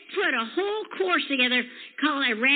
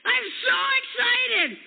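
imitating excited friend; 8 semitones higher, slower than usual. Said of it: "She goes".

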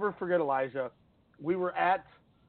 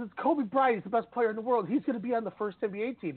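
incredulous, pitched-up insistence; retold outburst, voice jumping high; excited retort; 6 semitones higher than usual. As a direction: defend Kobe like it's obvious. Thompson's retold defense of Kobe.

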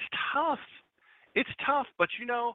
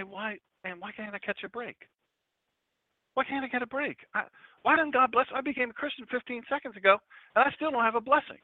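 mock complaining; 7 semitones higher than usual. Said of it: "People say".

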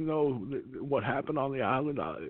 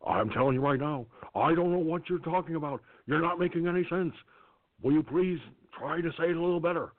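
Reagan impression. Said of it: "the greatest Reagan I've ever heard".

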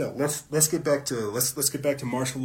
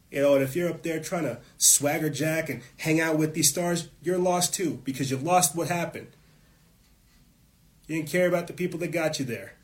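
heated rant; 3 semitones higher, 4 dB louder than usual. Real, not acted. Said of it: "I'm sorry I get angry".

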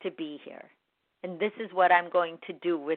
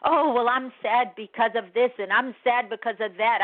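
a light, mocking whine of excuses; mocking whiny excuses; 4 semitones higher, 3 dB louder than usual. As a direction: make fun of someone making excuses, lightly. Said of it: "the excuse buffet".

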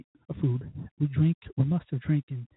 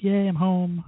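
mock cheer; 4 semitones higher, 4 dB louder, much slower than usual. Acting out his happy text home.

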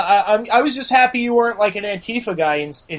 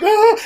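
high-pitched mock "ah"; imitated nervous yelp; 13 semitones higher, 5 dB louder than usual. Storyteller imitates the poor recruit, high nervous cry. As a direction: let out a small high cry as the kid. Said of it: "this poor kid was like".

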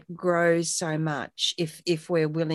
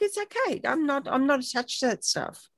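breezy reassurance; 6 semitones higher than usual. Retold or imitated. Her own easy reply, retold.

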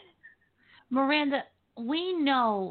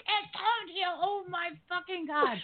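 higher, stunned disbelief at the reveal; imitating shocked Joey; 8 semitones higher than usual. Host retells Joey hearing it was Antonio, higher and shocked. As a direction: act out the guest's jaw-drop moment.

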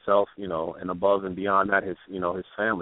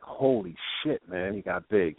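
put-on higher, slow amazed exclamation at a grown baby; a breathy, astonished holy shit, much higher; 8 semitones higher, slower than usual. Friend amazed at how big the son got, much higher and astonished.

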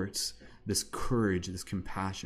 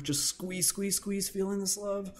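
high cooing squeeze; 12 semitones higher than usual. Acted. Guiding a self-hug.

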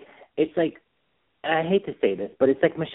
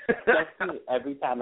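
quieter, laughing under the breath; real laughter fading out; softer laughter; 4 dB quieter than usual. Real, not acted. Laughing at the movie.

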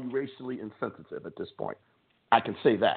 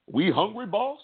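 much higher, fawning mock plea to the boss; a higher, fawning mock voice echoing the master; servile house slave; 9 semitones higher than usual. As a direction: imitate a servant eagerly echoing his master.

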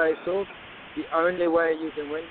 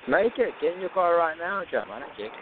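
wrestling promo; 3 semitones higher than usual. Acted. Challenging the rival to fight.

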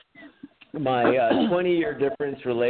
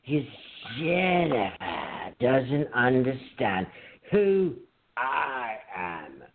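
imitating Chris; slower than usual. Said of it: "he would sit there and he would go".

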